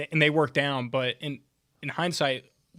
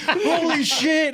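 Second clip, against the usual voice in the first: high, loud, slow, stretched out with a laugh; laughing disbelief; 14 semitones higher, 8 dB louder, much slower than usual. Retold or imitated. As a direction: draw it out, stunned and laughing. Shocked reaction retold.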